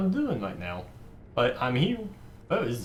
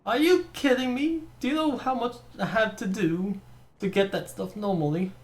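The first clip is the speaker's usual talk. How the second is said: excited; 11 semitones higher, 3 dB louder than usual. Real, not acted. Excited gamer reacting to loot.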